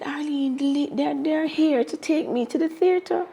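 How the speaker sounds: hushed urgent. Retold or imitated. The speaker telling Arlene on phone, hushed and anxious. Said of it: "So I said".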